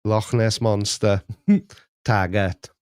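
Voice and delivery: lightly put-on Scottish accent; a joke stab at Scottish catchphrases. Shown as a demonstration. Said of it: "I just did a Scottish accent".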